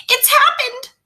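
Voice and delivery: high, panicked mother's cry; alarmed mother. A narrator's reading. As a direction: blurt it out in alarm. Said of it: "she cried".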